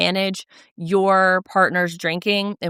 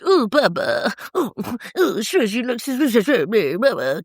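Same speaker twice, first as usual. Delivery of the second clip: put-on higher, cooing baby voice; cutesy baby talk; 3 semitones higher than usual. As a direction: coo it like a sappy boyfriend. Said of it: "Schwartz's little cutesy voice".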